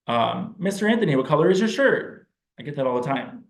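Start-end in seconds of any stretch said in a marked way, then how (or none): 0.6-2.3 put-on high, eager child's voice; child's question. Child asking Mister Anthony about his shirt, pitched high. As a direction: ask it like a curious kid.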